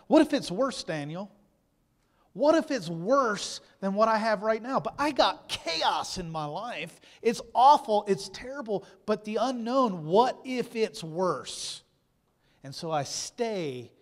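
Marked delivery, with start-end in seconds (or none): 0.1-11.8 higher, louder anxious pleading; voicing the fearful lie. Preacher acting out the lie of fear, higher anxious pleading. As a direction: plead like fear itself is whispering. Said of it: "Anybody been lied to like that?".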